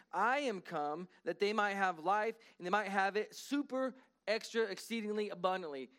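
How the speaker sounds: slow, pointed read of the verse; emphatic scripture reading. Acted. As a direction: lay weight on every word. Reading John ten ten.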